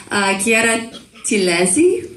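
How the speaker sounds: attempted Italian accent on the name. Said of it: "I'm trying to learn my Italian accent".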